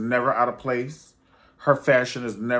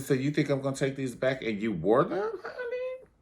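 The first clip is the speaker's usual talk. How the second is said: laughing scoff; 3 semitones higher than usual. Retold or imitated. Anna mocking the worn shoes.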